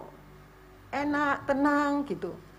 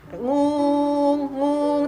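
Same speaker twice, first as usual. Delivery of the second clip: imitated ear ringing; 3 semitones higher, 3 dB louder than usual. Describing her tinnitus to the congregation, a humming ringing sound. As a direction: hum the ringing like ears after a flight. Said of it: "Berdengungnya itu seperti kalau kita turun dari pesawat".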